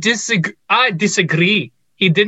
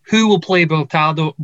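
put-on fumbled Scottish accent, "Bertaldo" with an AL vowel; attempted Scottish accent. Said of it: "I can't say that with a Scottish accent".

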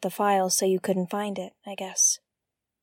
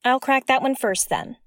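eager; 5 semitones higher, 9 dB louder than usual. Acted. Eager hacker reply.

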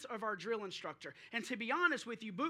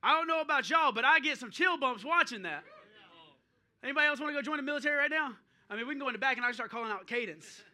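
excited; 7 dB louder, much faster than usual. Real, not acted. Pumped up after drill video.

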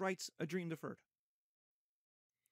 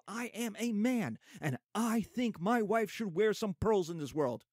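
impassioned plea; 5 semitones higher than usual. Acted. Walter pleads with his family about the pearls, impassioned. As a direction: demand an answer from the whole family.

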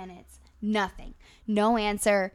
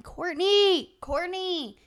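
high calling-out, mildly raised; retold yelling; 5 semitones higher, much slower than usual. Yelling up at a friend's open window, calling. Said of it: "like, yelling".

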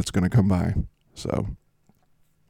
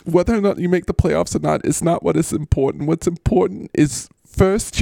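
higher, doting reassurance; tender consoling; 6 semitones higher than usual. Acted. Host consoles weeping Mister Golf, tenderly. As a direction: comfort a crying friend, voice rising higher.

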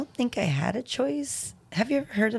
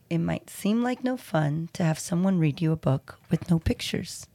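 whispering; 3 semitones lower than usual. Acted. Reading the book aloud.

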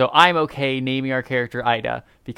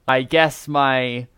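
disappointed; 3 semitones higher, slower than usual. Acted. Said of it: "it could just be something disappointed".

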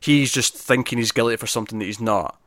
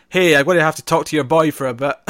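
mock shout up at the ceiling, slightly raised; retold shout; 5 semitones higher, 5 dB louder than usual. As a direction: call up loudly, imitating the film character. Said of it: "how he shouts up at the".

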